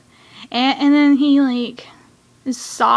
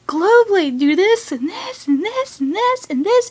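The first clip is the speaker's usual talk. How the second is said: higher, rapid-fire mock orders; imitated mad commands; 7 semitones higher than usual. Fan acting the mad hero commanding his monster, angrily. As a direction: reel off orders with pitch jumping on each. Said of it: "He was mad".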